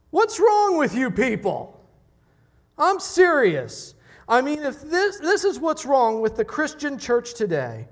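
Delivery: indignant preacher's yell, pitch way up; R C Sproul yelling. Retold or imitated. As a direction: thunder it at the congregation. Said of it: "when I start yelling".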